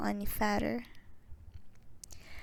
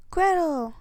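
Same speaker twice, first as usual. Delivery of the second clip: higher, louder joyful call; a freed brother calling his sister; 6 semitones higher, 4 dB louder than usual. A narrator's reading. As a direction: shout her name in relief. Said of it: "called Hansel".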